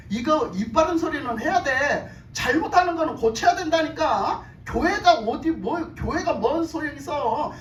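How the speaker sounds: mock indignant complaining, insistent; rebels' protest. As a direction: act out grumblers demanding change. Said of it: "반란을 일으켜가지고 막 와서". (반란자들이 항의하는 흉내)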